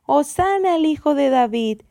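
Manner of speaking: loud, high cheering; crowd shouting. A narrator's reading. Crowd hailing Jesus as king, shouting. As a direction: cheer loudly like a parade crowd. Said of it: "se escuchaba gritar a la gente".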